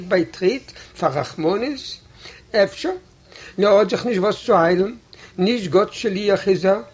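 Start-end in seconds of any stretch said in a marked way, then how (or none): none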